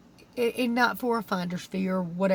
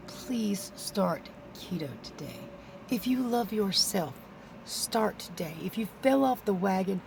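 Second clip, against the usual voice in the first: slow hushed whisper, barely voiced; pleading whisper; 7 dB quieter than usual. Real, not acted. Vlogger begging viewers to start keto, in a slow whisper. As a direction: breathe it to them like a secret plea.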